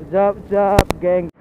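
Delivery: normal talking voice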